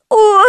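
high, loud howl; girl's howl. A narrator's reading. Girl howls as the doctor's fingers go in. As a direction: yelp in pain. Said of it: "взвыла девочка".

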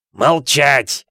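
loud barked bellow. A narrator's reading. Vernon to Harry, loud bellow. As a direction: shut him up. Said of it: "завопил дядя Вернон".

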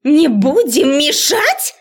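high, slow, loud outraged bark; furious bark. A narrator's reading. Professor shouting down the student, enraged. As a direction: throw it back enraged. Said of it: "гаркнула разозлённая до предела".

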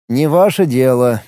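lightly mimicking her retort; a hint of teasing mimicry; mocking imitation. Violinist mimicking Liga's retort, light mocking imitation. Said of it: "передразнил её скрипач".

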